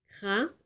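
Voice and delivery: Cravate split as cra... va... te; syllable by syllable. Shown as a demonstration. Teacher counting syllables with pupils, Cravate broken into beats. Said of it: "Combien de syllabes?".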